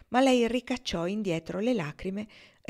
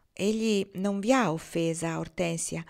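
very gently. Acted. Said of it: "disse con molta dolcezza".

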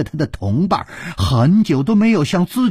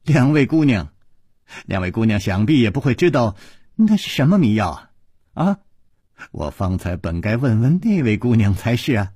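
wry smile. Acted. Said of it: "苦笑着说".

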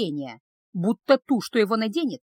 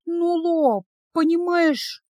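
put-on much higher pleading young woman; higher girlish plea that fades; 7 semitones higher, much slower than usual. A narrator's reading. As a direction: trail off, begging him to understand. Girl pleading, trailing off.

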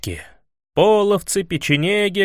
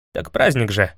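lower, lost, uncertain excuse; confused excuse; 4 semitones lower than usual. A narrator's reading. Prince explaining himself to Ivan, bewildered. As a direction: fumble for an excuse. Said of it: "растерянно объяснил князь".

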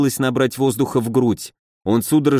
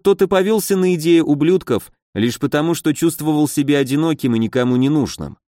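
plain reading voice

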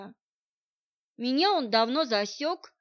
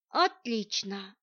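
slow, pleased and smiling; slow satisfied smiling word; much slower than usual. A narrator's reading. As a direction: savour it with a smile. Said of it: "улыбнулась я".

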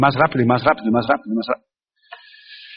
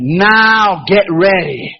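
ominous warning; much slower than usual. Retold or imitated. Preacher's slow ominous warning.

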